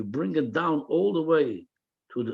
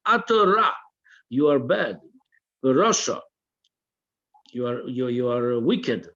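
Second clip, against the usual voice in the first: scolding the evil inclination; 3 semitones lower than usual. Shown as a demonstration. Teacher scolding the animal soul, firm rebuke. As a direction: rebuke it like a stern judge. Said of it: "You have to tell to your Yetzer Hara".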